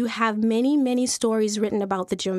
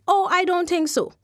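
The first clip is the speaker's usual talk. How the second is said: seller scoffing; 5 semitones higher, 4 dB louder than usual. Acted. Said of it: "thought he was stone mortal crazy".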